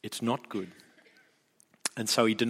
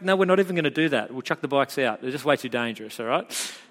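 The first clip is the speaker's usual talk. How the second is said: mock overreaction. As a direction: rattle it off as an absurd overreaction. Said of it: "In fact".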